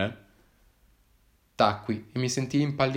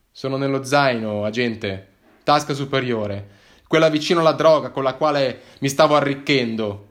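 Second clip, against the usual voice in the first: sardonic reply, louder; mocking; 3 semitones higher, 6 dB louder than usual. Hiker mocks the policeman about his drugs, sardonic. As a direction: tease the officer drily. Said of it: "lo sfottei".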